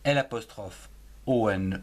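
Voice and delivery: l'on spelled L apostrophe O N; spelling out. Shown as a demonstration. Teacher spelling l'on aloud to pupils. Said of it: "ce que l'on".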